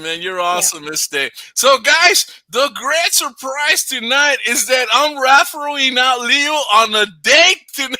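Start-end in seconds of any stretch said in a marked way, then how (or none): 1.5-8.0 mock announcer.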